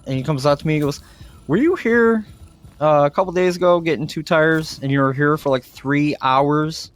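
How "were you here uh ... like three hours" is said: a light mock of the manager, pitched higher; imitating the manager. Manager asking the customer if he was here, lightly mimicked. Manager approaches him in story.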